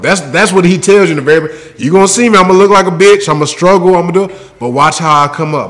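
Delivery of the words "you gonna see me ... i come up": imitating a cocky underdog's promise; bragging. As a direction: voice the hero boasting of his rise. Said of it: "He's bragging".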